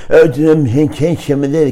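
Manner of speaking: stretched, drawn-out Moroccan Arabic imitation; mock Moroccan accent. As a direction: drag the vowels out like a Moroccan speaker. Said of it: "كذا وأمطط".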